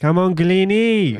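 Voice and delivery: high put-on Indian accent. Speaker retells what a kid kept shouting at a bowler, imitating an indian accent. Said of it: "we had an Indian accent".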